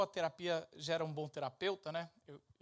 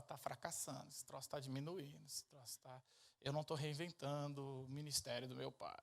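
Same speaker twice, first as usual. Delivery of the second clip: softer, worried self-talk; anxious muttering; 4 semitones lower, 8 dB quieter than usual. Retold or imitated. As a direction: mutter it to yourself in dread.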